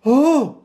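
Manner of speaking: high "oh!" of pain; pained cry. A narrator's reading. Pooh being pulled by Rabbit, pained cry. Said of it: "cried Pooh".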